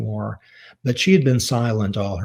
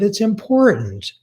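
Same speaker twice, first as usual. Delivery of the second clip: mad son; 10 semitones higher, 3 dB louder than usual. Retold or imitated. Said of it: "And I got mad at her".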